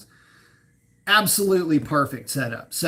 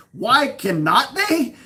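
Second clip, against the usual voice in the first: higher, slow, theatrical line reading; mock Shakespearean; 7 semitones higher, 3 dB louder, slower than usual. Shown as a demonstration. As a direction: declaim it like a hammy stage actor. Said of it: "What the hell kind of cadence was that?".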